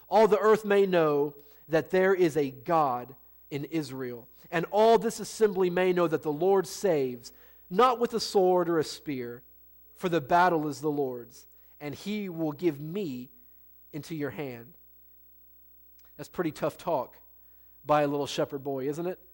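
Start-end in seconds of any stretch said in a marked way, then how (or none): 4.5-14.8 measured Bible reading to the congregation; a touch of solemn reading; scripture reading. Acted. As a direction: read it out steady and weighty.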